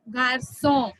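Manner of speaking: "Garçon" with an s sound in the middle; soft c as s. Shown as a demonstration. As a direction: say "Garçon" as gar-SON. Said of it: "k is changing to s".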